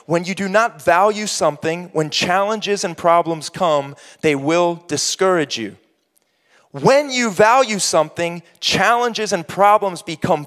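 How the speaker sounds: measured, deliberate reading; slow reading. Real, not acted. Preacher repeating a line for the congregation, measured and slow. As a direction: read it slowly, phrase by phrase. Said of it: "I'm gonna just read that slow".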